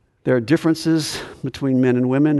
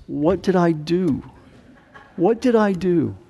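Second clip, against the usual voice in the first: slow, slightly raised self-questioning; mock worried husband; 3 semitones higher, slower than usual. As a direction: play a husband wondering what he did wrong. Husband's alarmed thought on seeing wife cry.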